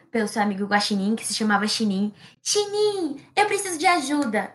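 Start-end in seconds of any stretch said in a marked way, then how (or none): 2.4-4.5 high, urgent call; calling for help. Acted. The ant calls the raccoon for rescue, high urgent call. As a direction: yell for your friend to come. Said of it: "a formiga gritou".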